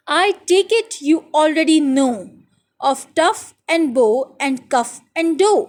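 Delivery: very slow, careful reading aloud of the poem. Shown as a demonstration. Teacher reading the poem to her pupils, slow and careful. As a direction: read each word out slowly for the class. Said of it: "तो मैं आपको साथ साथ बताती जाती हूँ".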